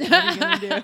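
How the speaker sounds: high, loud laughing brag; a loud laughing impression of a careless rich girl; laughing mock boast. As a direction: laugh out the rich girl's taunt. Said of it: "She's like".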